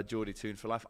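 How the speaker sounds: a weak, half-hearted stab at a Geordie accent. Shown as a demonstration. Host giving viewers the Geordie accent they asked for, badly. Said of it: "I know it was rubbish, but you forced me to do it".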